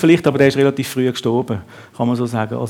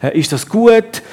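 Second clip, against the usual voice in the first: woman's question; 7 semitones higher, 4 dB louder than usual. Acted.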